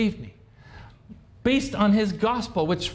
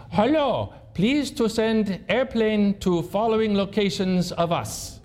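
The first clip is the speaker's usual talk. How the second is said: slow, halting mock Taliban accent in broken English; 3 semitones higher, slower than usual. Soldier's scratchy radio call to headquarters, lightly mocked in a Taliban accent. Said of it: "it sounds like a Taliban accent".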